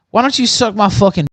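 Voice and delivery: loud furious rant; angry yell. Real, not acted. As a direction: yell it at him in anger.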